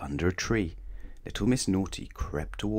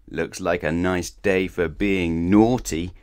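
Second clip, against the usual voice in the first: scheming; 5 dB louder, slower than usual. Acted. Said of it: "and rubbed her hands".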